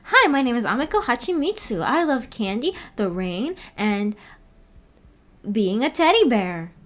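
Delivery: a hint of Amiko's bubbly voice; impression of Amiko. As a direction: lightly play a sweet girly intro. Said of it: "She's doing Amiko impression".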